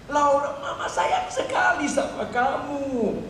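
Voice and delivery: high, drawn-out emotional tenderness; loving declaration. Acted. Mother embraces her runaway daughter, emotional loving voice.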